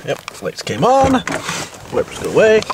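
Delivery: stuffy nose from a cold; nasal voice. Real, not acted. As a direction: talk through a blocked nose. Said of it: "sorry about the nasally voice".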